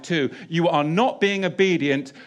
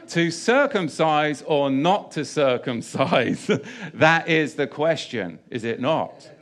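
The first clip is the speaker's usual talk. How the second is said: laughing parody. Pretend.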